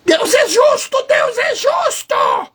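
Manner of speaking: hammed-up yell in a high put-on voice, last words drawn out; mock traditionalist shouting. Imagined traditionalist insists God is just, mock shouting. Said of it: "o Zezinho tradicionalista já tá gritando lá".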